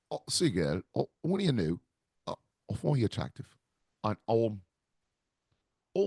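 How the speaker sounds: a light, soft Cockney seducer; Cockney accent. Retold or imitated. Comic voices the Cockney charmer luring a wife, mock Cockney. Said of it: "with Tom Hardy's Cockney accent".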